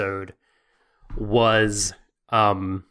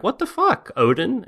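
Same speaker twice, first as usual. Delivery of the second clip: shocked outburst; 11 semitones higher than usual. Retold or imitated. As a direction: pitch leaps up on the outburst. Confronting Odin in Valhalla.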